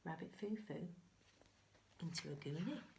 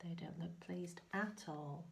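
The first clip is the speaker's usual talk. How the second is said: whisper; 4 dB quieter than usual. Real, not acted. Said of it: "whispered aside".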